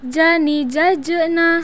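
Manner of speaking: "jajena" with a rebounding j; bouncing consonant. Shown as a demonstration. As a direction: release the middle j of "jajena" with a small echo. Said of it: "suara mantul".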